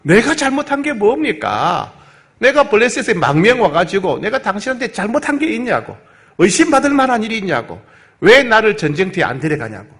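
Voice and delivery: acted outburst of temper, high-pitched; indignant protest. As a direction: protest hotly, as if wronged. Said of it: "막 화를 내면서".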